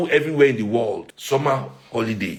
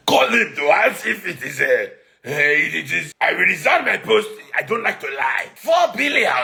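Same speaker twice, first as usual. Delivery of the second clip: Wike impression; 4 semitones higher than usual. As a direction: shout it like Wike, pitched way up. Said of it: "let me do my best Wike impression".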